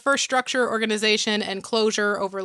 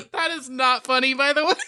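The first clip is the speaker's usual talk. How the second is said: laughing; 3 semitones higher than usual. Real, not acted. Laughing fit.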